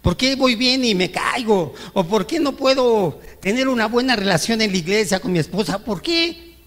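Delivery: high-pitched reproachful "¿por qué?"; imitated complaint to God. Believer reproaching God, a high mock plea. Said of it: "le dices".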